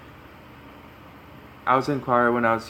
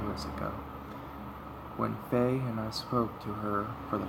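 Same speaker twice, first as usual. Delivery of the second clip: soft-spoken, understated story reading; story narration; 8 dB quieter than usual. Acted. Boy describing his childhood friend, softly spoken story narration. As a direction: read it quietly as first-person narration.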